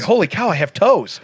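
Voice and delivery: mock amazed. Joke about finding his toes.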